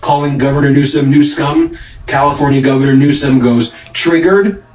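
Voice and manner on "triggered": high, rising mock question; teasing high rise; mocking taunt. Quoting Newsom's taunt at Trump.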